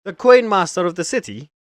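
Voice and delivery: high, loud stunned disbelief; can't believe who he's facing; shocked guard. Acted. Guard learns the thief is Coin Master, shocked shout.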